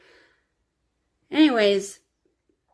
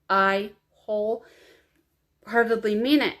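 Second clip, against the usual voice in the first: slow, tearful and sincere; holding back real tears; choked-up earnest promise; teary; slower than usual. Real, not acted. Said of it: "I'm so sorry I'm crying again".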